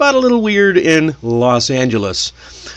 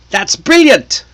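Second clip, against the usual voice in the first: high, loud mock British "That's brilliant"; British accent; 11 semitones higher, 5 dB louder, slower than usual. Quoting movie Brits in a high, loud British accent. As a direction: toss off a higher, louder movie Brit accent. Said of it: "you've probably heard this one in the movies".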